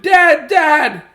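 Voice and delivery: high, loud frightened calling; shout. Acted. Scared Jasper calling his dad from bed. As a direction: call out for help in panic. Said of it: "he shouted".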